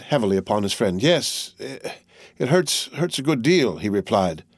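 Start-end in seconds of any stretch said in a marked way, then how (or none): 1.0-3.8 slow, halting and pained; faltering voice. Acted. Wounded Henry answering his friend, faltering with pain. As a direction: let the words stumble from pain. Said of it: "There was a faltering in his voice".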